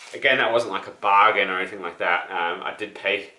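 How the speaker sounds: breathless after running downstairs; slightly winded, catching breath between phrases. Real, not acted. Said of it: "I'm out of breath because I'm still kinda sick and I just ran downstairs".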